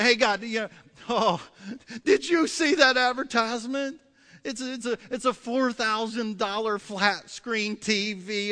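acted shopper's excitement; excited pleading. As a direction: gush to God about a must-have bargain. Acting an eager shopper praying.

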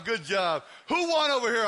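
ordinary talk, nothing marked

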